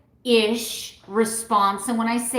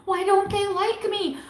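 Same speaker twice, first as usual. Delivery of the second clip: put-on hurt old self; 11 semitones higher than usual. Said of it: "I'm like".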